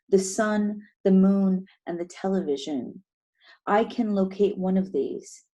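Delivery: measured, deliberate poem recital; poetry reading. Acted. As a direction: read each line as verse, pausing between images.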